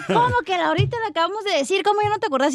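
mock scolding mother. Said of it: "Y luego".

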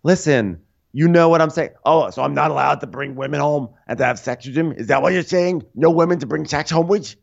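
mock indignation climbing high; indignant retort. Frank questioning the rule on bringing women home, high mock indignation. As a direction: push back with rising, put-on disbelief. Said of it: "It's like".

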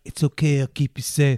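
acted soothing promise; mock reassurance. Friend imagining comforting scared theater girls, low and reassuring.

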